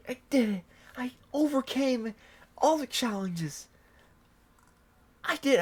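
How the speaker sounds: hammed-up victory speech through tears; mock triumphant tears. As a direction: fake weepy triumph. Acting triumphant tearful speech.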